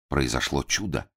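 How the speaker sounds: ordinary delivery, nothing marked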